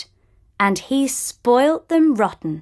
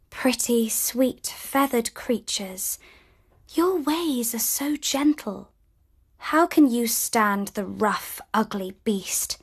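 soft tender voice to birds; gentle; 6 dB quieter than usual. Acted. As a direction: coo softly to the birds. Belle talks gently to birds.

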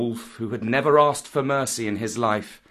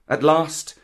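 plain reading voice

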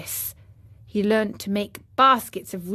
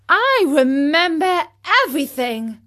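eager cry, louder and higher; cried out; 6 semitones higher, 6 dB louder than usual. Acted. Pinocchio cries out to the snail, eagerly. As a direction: burst out with it. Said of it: "cried Pinocchio".

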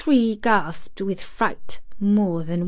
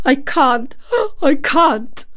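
high, louder sobbing plea; 6 semitones higher, 4 dB louder, slower than usual. A narrator's reading. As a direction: gasp it out crying. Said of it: "he gasped and sobbed".

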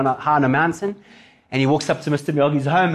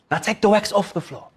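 Mister Miyagi; 4 semitones higher than usual. Retold or imitated. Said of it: "and he goes".

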